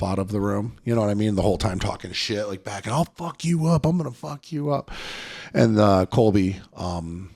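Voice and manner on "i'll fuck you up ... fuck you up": high-pitched mock threats, not shouted; imitated trash talk. Kid talking trash as he leaves the room, high mocking imitation. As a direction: mimic empty threats, pitched well up.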